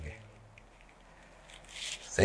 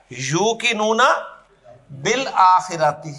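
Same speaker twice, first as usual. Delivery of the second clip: slow Arabic demo; much slower than usual. Shown as a demonstration. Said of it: "عربی میں کہا جائے گا".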